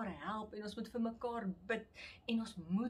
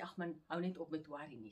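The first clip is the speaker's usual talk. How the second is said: dismissive brush-off; 4 semitones lower, 4 dB quieter, faster than usual. Retold or imitated. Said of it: "dit nie net sommer afmaak nie en sê".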